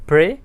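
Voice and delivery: प्रे said lightly on its own; light first syllable. Shown as a demonstration. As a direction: leave प्रे unstressed. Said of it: "वो हम हल्का बोलते हैं".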